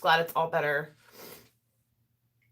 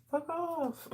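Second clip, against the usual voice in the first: high, quiet, snippy skunk retort; grumpy skunk voice; 10 semitones higher, 8 dB quieter than usual. Pretend. Voicing the skunk warning off curious cats, a high snippy retort. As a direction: play the skunk brushing off the cats. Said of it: "And then it's like".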